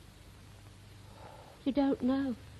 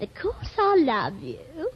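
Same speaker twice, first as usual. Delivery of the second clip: slow repeat; slower than usual. Acted. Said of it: "I said".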